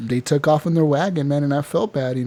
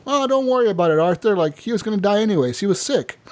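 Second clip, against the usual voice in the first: lightly imitated brush-off, pitched high; high, breezy mock consoling; dismissive reassurance, retold; 6 semitones higher, faster than usual. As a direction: wave the guilt away in a higher voice. Strauss brushing off Arthur's guilt.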